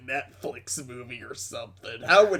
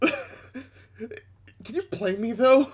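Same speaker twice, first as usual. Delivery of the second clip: higher, slow whiny ask; whiny high plea; 8 semitones higher, much slower than usual. Real, not acted. Friend pleads in a high voice to be played. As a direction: stretch it out pleading.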